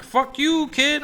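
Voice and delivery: high-pitched mock-angry retort; acted angry rejection. King Phil abandoning the kid, mock-angry high voice.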